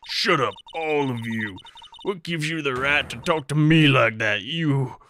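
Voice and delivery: angry outburst. Acted. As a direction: lash out at the lawyer. Voicing witness's outburst at court.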